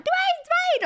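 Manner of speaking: squeaky excited call-out; mock excited chat. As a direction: imitate an excited chat calling the name.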